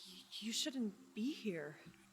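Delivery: airy, wispy voice with an echo. Narrator voicing the player's dad, who looks up and speaks, wispy echoey voice. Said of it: "also in that same wispy, echoey voice".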